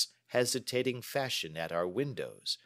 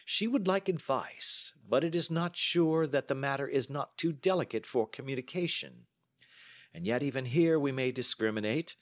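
higher-pitched, assured detective voice; confident detective deducing; 7 semitones higher than usual. Acted. Holmes explains the visitor's hesitation to his companion, confidently deducing. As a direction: reason aloud with measured assurance.

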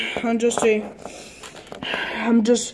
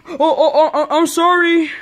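laughing apology; 3 semitones higher than usual. Real, not acted. Laughing after the scare.

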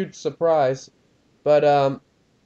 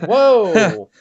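surprised; 4 semitones higher, 8 dB louder than usual. Real, not acted. Reacts to crash.

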